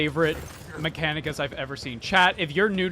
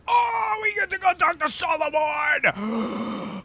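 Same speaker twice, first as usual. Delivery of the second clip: high, slow delighted cry; excited squeal; 12 semitones higher, slower than usual. Real, not acted. Streamer thrilled to see her favourite character, squealing. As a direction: gush with delight at meeting him.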